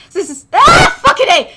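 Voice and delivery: loud laughing curse at a tongue-twister; laughing outburst. Real, not acted. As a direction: blurt it out laughing, exasperated. Fumbling a name, frustrated.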